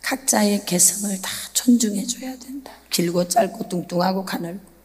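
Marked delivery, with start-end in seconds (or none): none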